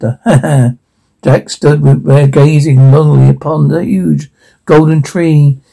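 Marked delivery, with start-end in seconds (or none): 0.0-0.7 laughing. Acted. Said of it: "Children laughed".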